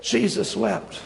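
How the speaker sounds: slow, weighty verse recital; hushed reverence, unhurried; solemn quote. Acted. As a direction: let the short verse sink in slowly. Same verse given weight after pause.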